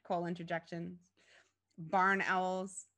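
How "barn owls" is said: plain reading voice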